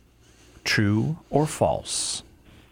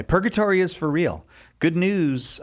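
big announcer voice; 6 semitones higher than usual. Acted. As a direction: sell it like a prize. Re-announces the book title.

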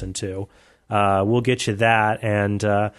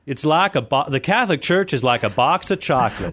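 Southern Morgan Freeman; 3 semitones higher than usual. Pretend. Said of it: "the exact accent you just did".

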